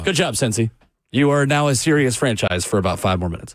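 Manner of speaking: dry mock praise; sarcastic praise. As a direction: hand out fake credit. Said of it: "sarcastically as I can give you credit".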